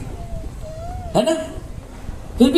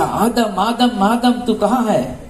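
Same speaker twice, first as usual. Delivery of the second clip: higher-pitched searching call; 4 semitones higher, slower than usual. Acted. God seeking Adam in the garden, calling out. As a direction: call out for someone out of sight.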